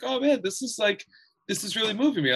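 high, half-joking gush of being moved; a hammed-up touched voice; mock gushing. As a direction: play up being swept away, pitched high.

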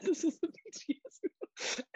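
high, slow put-on voice; dad's retort. Dad insisting to mom it is a band's tie-in meal, high and slow. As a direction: drag it out high and indignant. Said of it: "They said".

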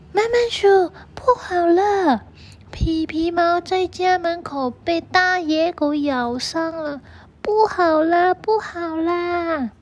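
high, loud panicked cry of bad news; loud alarmed shout. A narrator's reading. Rabbit shouts urgent bad news to the mouse. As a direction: yell it out, breathless with alarm. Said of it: "大声地喊".

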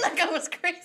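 giggling through the words; laughing. Real, not acted. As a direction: laugh as you say it. Laughs while speaking.

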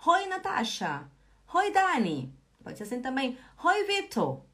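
greeting classmates by name, cheerfully; cheery greeting. Shown as a demonstration. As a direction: greet each friend with a bright hoi. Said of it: "Ou eu posso falar".

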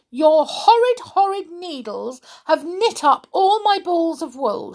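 high, upset complaint; near tears. A narrator's reading. Sally complaining to Mother Click-Clack, high and tearful. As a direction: whine it, almost crying. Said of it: "She was almost in tears".

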